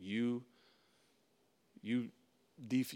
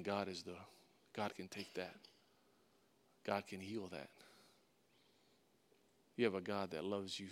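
soft, lower comforting tone; compassionate; 3 semitones lower, 6 dB quieter than usual. Acted. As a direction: gently reassure someone who is hurting. Voices compassionate words to the hurting.

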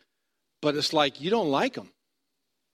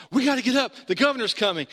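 higher, urgent half-asleep wife; urgent sleepy wife; 8 semitones higher, faster than usual. Retold or imitated. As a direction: imitate her waking him in a panic. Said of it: "jumps up out of bed one night and says".

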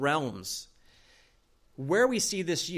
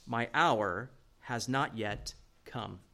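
slow emphatic reading with weight on "hour"; slow, weighty; 4 semitones lower, 3 dB quieter, slower than usual. Shown as a demonstration. Preacher reads Jesus' reply slowly to stress timing. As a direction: lean into "hour" and take it slowly. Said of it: "Look what he says".

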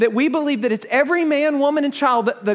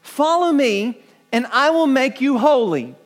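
quoting Jesus; 2 semitones higher, 3 dB louder than usual. Retold or imitated. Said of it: "Jesus did not say".

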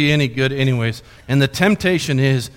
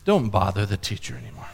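enemy's whisper; 7 semitones lower, 8 dB quieter than usual. Retold or imitated. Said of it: "he begins to whisper those words".

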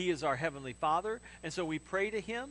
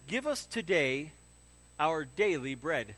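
slow reading; 3 semitones lower, slower than usual. Shown as a demonstration. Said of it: "Say that with me".

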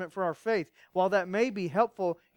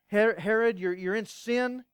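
loud, high accusing call to Herod; bold rebuke; 4 semitones higher, 6 dB louder than usual. Acted. Preacher voicing John calling out Herod, loud rebuke. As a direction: cry out the rebuke with force.

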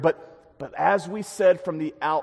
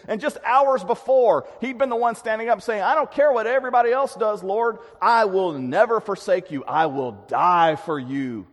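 louder, higher, fast boasting vow; bold vow; 5 semitones higher, 5 dB louder than usual. Retold or imitated. Peter boasting to Jesus, loud eager vow. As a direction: swagger through the promise.

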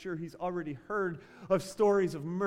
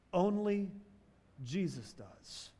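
quiet reverent punchline; hushed emphasis; 5 dB quieter than usual. Acted. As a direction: let it fall to a near hush. Drops to hush for the point.

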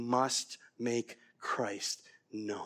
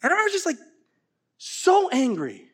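laughing; 8 dB louder, slower than usual. Real, not acted. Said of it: "being so mad".

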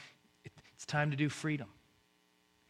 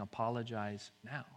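softly, low; hushed, gentle instruction; whispered nudge; 4 semitones lower, 6 dB quieter than usual. Acted. God prompts others to make peace, hushed. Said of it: "God is whispering".

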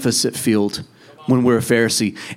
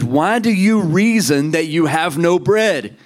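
voice of Jesus; 4 semitones higher than usual. Acted. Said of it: "he said".

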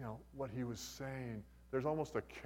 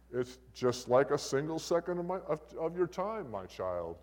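God voice; 5 semitones higher, 5 dB louder than usual. Acted. God answering a man's question, God voice. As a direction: lightly play God, higher and louder, settling down. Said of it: "this is my God voice".

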